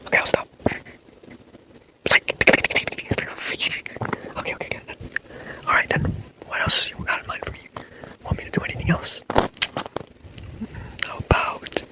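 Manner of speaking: breathy ASMR whisper, close to the mic; whisper talk. Acted. ASMR boyfriend comforting a sleepless girlfriend, whispering. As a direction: hush it like a boyfriend soothing her to sleep. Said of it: "like, whisper talk".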